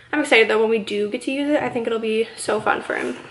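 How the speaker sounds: breathless, pregnant and winded; out of breath. Real, not acted. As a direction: talk while short of breath. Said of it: "I'm so out of breath".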